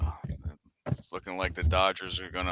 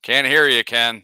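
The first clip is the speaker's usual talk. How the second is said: raised voice to be heard; calling out loud; 3 semitones higher, 9 dB louder than usual. Real, not acted. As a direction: call it out louder across the line. Calling louder to Ken again.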